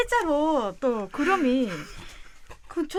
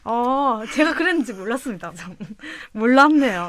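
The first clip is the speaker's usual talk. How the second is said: laughing; 7 dB louder than usual. Real, not acted. Caught using dialect, laughing it off.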